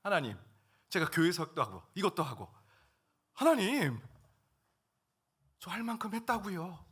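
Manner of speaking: exasperated cry to God; pouring it out. Retold or imitated. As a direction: let the frustration spill out. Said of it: "속에 있었던 얘기들 막 하나님께 막 쏟아냈죠".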